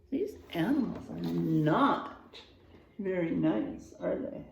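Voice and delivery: soft confiding whisper to the class; hushed aside. Real, not acted. Teacher whispering to the children about the mean animals, hushed. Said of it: "teacher aside to children".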